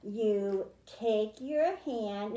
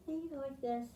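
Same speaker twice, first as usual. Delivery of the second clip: softer, drowsy "this" as if half asleep; sleepy soothing voice; 3 semitones higher, 7 dB quieter, much faster than usual. Shown as a demonstration. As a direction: drop it to a hush like a mother dog. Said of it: "telling her puppy to go to sleep".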